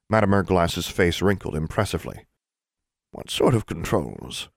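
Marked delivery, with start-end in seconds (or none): 3.1-4.5 put-on slow, drowsy old witch; sleepy old witch. Headmistress asks the inspector, slow and drowsy. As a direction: ask without any urgency.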